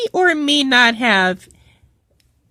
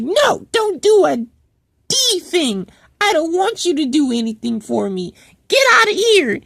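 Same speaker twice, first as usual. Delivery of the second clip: mock angry dismissal. Angry coworker rejects the apology.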